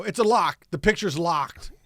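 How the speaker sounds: announcing it's a lock; announcement. Retold or imitated. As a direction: call out that picture's locked. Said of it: "I go, I go".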